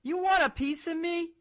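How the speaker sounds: put-on high, loud New York accent challenge; mock Joe Pesci in a New York accent. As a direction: pick a fight in a thick New York accent. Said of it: "Joe Pesci in his thickest regional accent saying".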